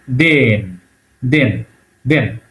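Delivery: "দেন" repeated with a softened consonant; soft consonant demo. Shown as a demonstration. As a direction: drill the soft-sign sound in "দেন". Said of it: "একটু নরম হয়ে যাচ্ছে".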